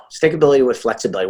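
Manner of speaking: fast, neat delivery of Stickability with flexibility; crisp restatement. Real, not acted. Summing up his motto for the host, fast and crisp. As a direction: rattle off Stickability with flexibility as a slogan. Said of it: "There you go".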